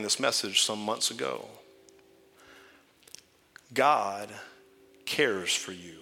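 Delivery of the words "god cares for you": softly spoken. Shown as a demonstration. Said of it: "I'm gonna say it a couple times".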